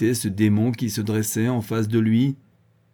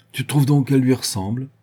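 sneering; 4 semitones higher, 6 dB louder than usual. A narrator's reading. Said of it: "ricana le vieux druide".

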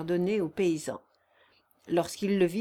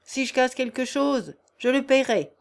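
high, raised, playful gruffness; cheerful brusqueness; 4 semitones higher, 4 dB louder than usual. A narrator's reading. Peasant answering the master's warning, cheerful brusqueness. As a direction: toss the retort back briskly and good-humouredly. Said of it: "avec une brusquerie enjouée".

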